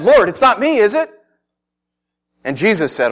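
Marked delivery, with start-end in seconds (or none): 0.0-1.1 loud, high, pleading question; anxious denial. Acted. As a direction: plead innocence in a raised, urgent voice. John anxiously denies being betrayer.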